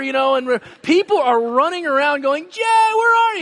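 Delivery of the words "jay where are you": high, loud searching call. Retold or imitated. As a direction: shout across the complex for a lost boy. People searching for lost boy.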